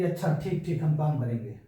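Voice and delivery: agreeable "अच्छा", short and settled; matter-of-fact consent; accepting. Shown as a demonstration. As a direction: say "अच्छा" as a straightforward yes, dropping into agreement. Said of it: "स्वीकृति".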